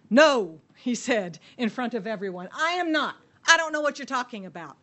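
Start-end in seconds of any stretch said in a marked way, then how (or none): 0.1-0.6 sharp denial. Acted. Peter's panicked denial. 2.5-4.7 flustered denial. Acted. Peter denying to servant girl.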